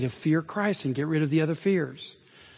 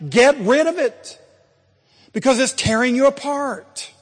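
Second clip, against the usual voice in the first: fervent exhortation; 7 semitones higher, 8 dB louder than usual. Real, not acted. Sermon climax, preacher exhorts.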